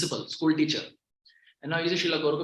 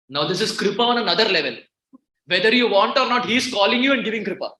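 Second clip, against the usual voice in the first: fervent preaching; 6 semitones higher, 8 dB louder than usual. Real, not acted. Preacher rising with fervour.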